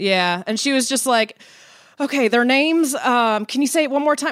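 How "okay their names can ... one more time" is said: put-on broad, thick American Southern accent, laid on. Telling how their mom practiced saying names, the speaker does her thick Southern accent. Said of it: "in her thick southern accent".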